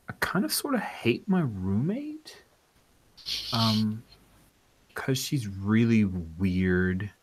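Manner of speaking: a nervous caller confessing on the radio; high, breathy caller voice that drops to a whisper; girl caller asking advice. Acted. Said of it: "And she says".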